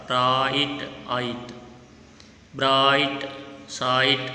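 "राइट, आइट, ब्राइट, साइट" with long drawn ai; ai sound. Shown as a demonstration. Teacher shows the shared sound, ai stretched in "राइट, आइट, ब्राइट, साइट". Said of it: "आई की तरह ही sound आ रहा है".

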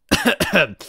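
loud, high showy cough; theatrical throat-clearing. Acted. Bowser prepares his announcement, theatrical throat-clearing. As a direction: clear the throat before a grand reveal.

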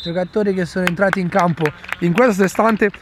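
lively match announcer intro; sports commentary. Real, not acted. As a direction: open the broadcast like a commentator. Opens the match broadcast. (telecronaca sportiva)

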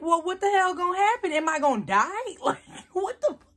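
high, loud panicked questions; hammed-up rising alarm; retold scared panic. Daughter asks mom if she's gonna die, mock panic. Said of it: "I'm literally scared".

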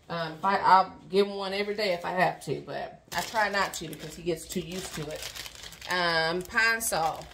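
talking around a retainer; words slurred by a retainer; retainer in mouth. Real, not acted. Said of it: "I'm talking weird because I have my retainer in my mouth".

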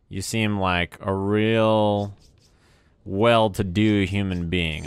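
slow, deliberate mock compliment; sarcastic praise. Real, not acted. Streamer answering a heckler in chat, sarcastic praise. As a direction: draw it out with dry sarcasm.

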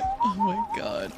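laughing. Real, not acted. Laughing at a game character.

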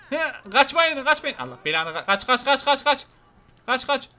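high, loud calls to stop and run; shouting after people running away. Acted. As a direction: holler after them as they scatter. Chasing fleeing people in game.

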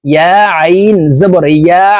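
"ইয়া" closing on an ayn squeezed from mid-throat; "আইন" and final "ইয়া" with a pharyngeal ayn; pressed ayn. Shown as a demonstration. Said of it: "হলকের মধ্যখান থেকে চাপ দিয়ে".

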